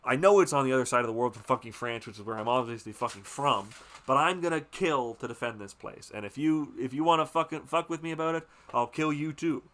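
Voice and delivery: mock a bitter landowner vowing to kill; stubborn threat. The father threatens Willard, mock-angry. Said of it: "he's obsessed with".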